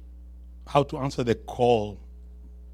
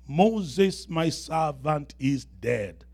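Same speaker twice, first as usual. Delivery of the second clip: solemn scripture reading; much slower than usual. Acted. Reads God's words to Joshua aloud.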